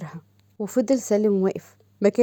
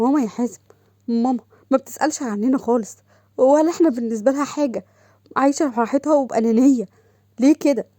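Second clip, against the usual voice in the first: upset complaint; 3 semitones higher than usual. Acted. Tearful sister complains about mother.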